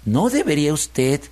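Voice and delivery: slow, drawn-out piglet pleading; wheedling piglet. Acted. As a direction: gently talk the fox round, taking your time. (cerdito zalamero, hablando despacio)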